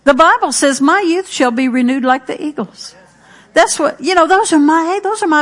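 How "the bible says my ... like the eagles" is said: spoken confession. Shown as a demonstration. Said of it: "you just go right along".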